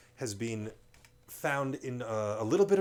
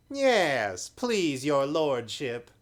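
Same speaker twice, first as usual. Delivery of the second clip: higher, slow fawning slaver; wheedling; 4 semitones higher, 7 dB louder, much slower than usual. A narrator's reading. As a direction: grovel sweetly to the lord. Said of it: "said in a wheedling kind of voice".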